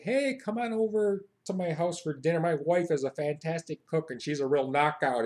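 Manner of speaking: hearty, confident American invitation; boastful American. Acted. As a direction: invite them over and show off. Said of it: "No, we say, like".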